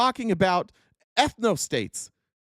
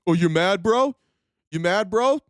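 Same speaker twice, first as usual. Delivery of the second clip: mocking bro taunt. Critics taunt the angry host, mockingly.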